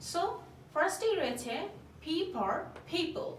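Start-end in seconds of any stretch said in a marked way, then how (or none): 2.0-3.3 said very slowly, word by word; slow modelling. Shown as a demonstration. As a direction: spell it out slowly for the class. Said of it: "teacher modelling the phrase".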